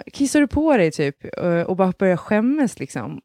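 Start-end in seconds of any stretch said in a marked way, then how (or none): 0.1-0.9 mock child asking mom; child's shocked question. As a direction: play the startled daughter. Child voiced in retold story.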